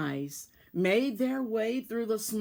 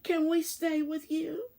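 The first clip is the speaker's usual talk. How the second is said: pleading cry; 7 semitones higher than usual. A narrator's reading. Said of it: "Then all of the mice cried".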